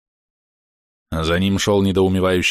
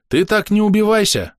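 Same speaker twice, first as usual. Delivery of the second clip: high, calling-out voice; badger's raised-pitch jeer; shouted taunt; 12 semitones higher, 3 dB louder than usual. A narrator's reading. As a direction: call it out mockingly. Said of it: "крикнул барсук".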